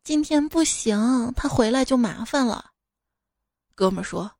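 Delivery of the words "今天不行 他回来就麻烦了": slow, lightly coy refusal; half-reluctant. Acted. Bride fending off the groom's best buddy, half-reluctant. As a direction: resist a little without really meaning no. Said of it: "老婆半推半就的就说".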